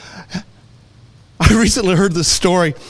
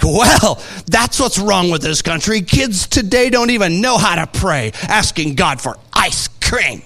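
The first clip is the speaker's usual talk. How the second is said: mock indignant grumbler; lightly put-on scolding, dragging out the last words; disapproving complaint; 3 semitones higher than usual. Grouchy woman complaining about a child's prayer, mock disapproval.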